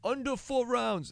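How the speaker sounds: bad mock Irish accent, slow and high. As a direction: put on a hammy Irish lilt.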